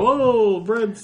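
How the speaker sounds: very high squeaky cartoon voice; silly cartoon dog voice. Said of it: "he's like".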